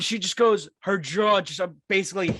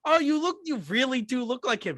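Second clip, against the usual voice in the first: gym woman quoted; 7 semitones higher than usual. Retold or imitated. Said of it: "She goes like".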